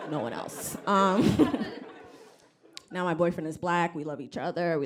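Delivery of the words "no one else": lower, softer repeat with a laugh; quiet aside. Shown as a demonstration. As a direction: mutter it again under your breath, amused.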